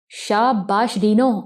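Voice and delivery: slow, stretched cheerful shabash; a hint of delighted chirping; chirpy praise. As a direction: gloat happily over her trick. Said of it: "سمت خان چہک کر بولا".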